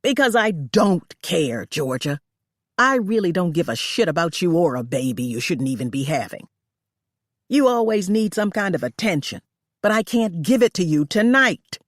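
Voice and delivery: a hint of an employer sneering; lightly voiced cruel boss.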